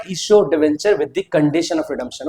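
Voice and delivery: slow and deliberate, each word of "Issue of debenture with the condition of redemption" spaced out. Shown as a demonstration. Teacher repeating the topic name slowly for students. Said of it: "कौन सा वाला topic बोल रहा है?".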